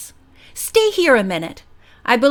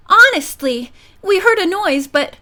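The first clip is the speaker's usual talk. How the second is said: protesting; 7 semitones higher, 3 dB louder than usual. A narrator's reading. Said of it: "Bess protested".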